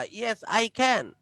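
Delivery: "Yes, I can" spoken very slowly with a stretched "can"; long drawn can. Shown as a demonstration. Teacher answering "can you sing": slow stretched "can". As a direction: stretch each word, leaning on "Yes". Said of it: "একটু লম্বা হচ্ছে উচ্চারণটা".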